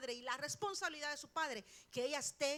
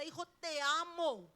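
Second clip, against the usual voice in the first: tender demo; 7 dB louder than usual. Shown as a demonstration. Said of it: "Póngale la mano y dígale".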